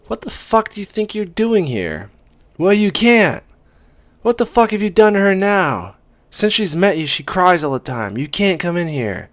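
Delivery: high, loud outraged roommate; angry shouting. A narrator's reading. Roommate yelling at the man who made her friend cry, high angry shout. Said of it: "by Kate shouting".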